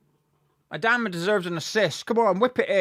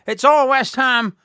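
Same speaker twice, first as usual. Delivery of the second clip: louder and slower, stress on all; building excitement; 5 semitones higher, 6 dB louder than usual. Real, not acted. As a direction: lean into it, getting fired up. Repeats phrase louder.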